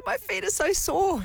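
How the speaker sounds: high, slow whiny sore feet; mock whimper. Gold medallist retelling her teary complaint, high whimper. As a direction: whimper it like a child. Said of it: "I said".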